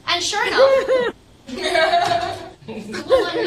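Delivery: high, loud laughing through the words. Real, not acted. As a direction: laugh as the punchline lands. Laughs at own story punchline.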